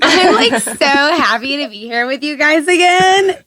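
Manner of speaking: put-on high bubbly valley girl voice. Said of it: "don't talk like a valley girl".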